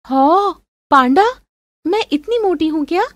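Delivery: high, indignant questioning; gasp-like mock outrage, pitch up; offended girlfriend. Girlfriend teased as a panda, affronted.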